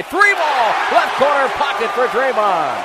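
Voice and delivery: high burst easing slightly; ringing play-by-play payoff; excited three-point call. Real, not acted. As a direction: pop the call out as it drops. Live call of a made three.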